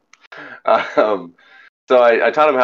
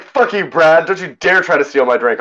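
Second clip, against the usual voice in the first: mock angry; 8 semitones higher than usual. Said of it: "and I was like".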